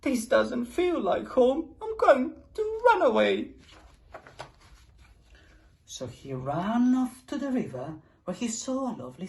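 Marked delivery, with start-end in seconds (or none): 0.0-3.5 cried out. A narrator's reading. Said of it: "And he cried".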